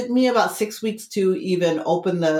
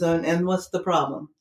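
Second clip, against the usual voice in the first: understated, matter-of-fact imitation of her asking; imitated blunt question. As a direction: ask it evenly, without any fuss. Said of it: "that's how she said it".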